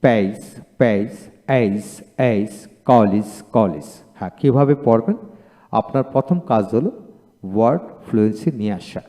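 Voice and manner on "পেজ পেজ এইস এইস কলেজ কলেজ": each English word read twice, G sounded as জ; teacher demo, final G as জ; drilled word list. Shown as a demonstration. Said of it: "যেমন".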